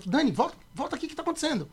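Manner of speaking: retold calling back. Friend pulls Dani back on the highway, retold calling back.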